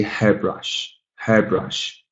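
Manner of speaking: HAIR-brush, both parts fairly equal; first-syllable stress. Shown as a demonstration. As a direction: lean a little on the front of hairbrush. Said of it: "stress falls a little bit more".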